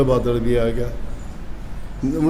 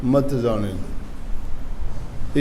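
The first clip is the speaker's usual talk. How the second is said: मत जाने दो set apart after a pause, slow and lower; comma before मत; 4 semitones lower, 4 dB quieter, much slower than usual. Shown as a demonstration. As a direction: slowly separate मत जाने दो as its own phrase. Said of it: "कोमा लगा दिया". (मत जाने दो अलग से, धीमे)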